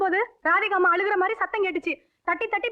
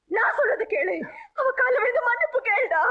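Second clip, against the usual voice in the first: tearful, raised order; crying command; 4 semitones higher than usual. Acted. Mother forcing her son to apologise, crying. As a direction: insist through sobs.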